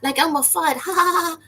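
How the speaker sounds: high, loud goofy laugh; high Elmer Fudd-style laugh. Retold or imitated. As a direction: chuckle like a cartoon hunter. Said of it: "he has a voice like this".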